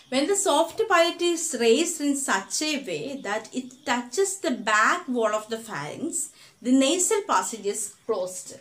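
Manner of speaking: very slow, word-by-word dictation for notes; slow textbook dictation. Shown as a demonstration. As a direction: read the definition out so students can write it down.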